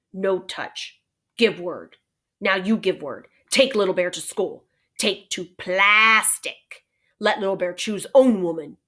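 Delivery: slow, broken-English demands; choppy, firm phrases, lightly acted; lightly voiced Little Bear, bargaining. Little Bear setting terms with Omri, curt bargaining.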